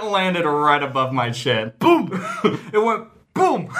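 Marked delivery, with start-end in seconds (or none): 1.8-2.1 sudden loud boom, pitched up; fireworks noise. Retold or imitated. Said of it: "You deserve it for that firework impression". 2.7-3.7 fireworks noise. Retold or imitated. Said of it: "That's not how fireworks sound".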